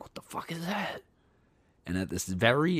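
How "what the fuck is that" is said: hushed, breathless whisper in the dark; scared whisper. Retold or imitated. Woken by a strange noise, a scared whisper. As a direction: whisper it, frightened and unsure.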